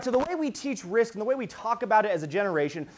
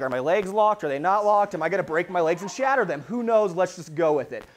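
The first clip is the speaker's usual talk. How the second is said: louder, hurried-sounding fretting; half-joking alarm before landing; mock panic; 4 dB louder than usual. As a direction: play a jumper panicking, lightly hammed up.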